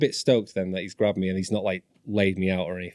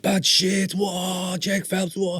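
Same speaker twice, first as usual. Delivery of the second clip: high-pitched mock crowd awe; imitating excited fans; 10 semitones higher, much slower than usual. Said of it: "they're all going mad".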